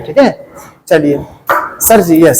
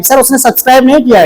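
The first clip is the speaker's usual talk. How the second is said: class chorus; 3 semitones higher, faster than usual. Shown as a demonstration. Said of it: "एक साथ".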